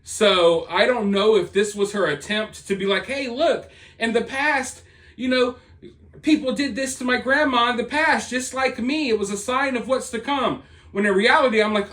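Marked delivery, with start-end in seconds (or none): 3.1-10.6 higher-pitched imitation of pleading her case; mock earnest explaining. Imitating author's plea for sympathy.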